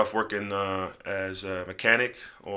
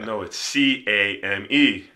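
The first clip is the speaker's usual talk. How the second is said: correcting; 4 dB louder, slower than usual. Retold or imitated. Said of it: "he was like".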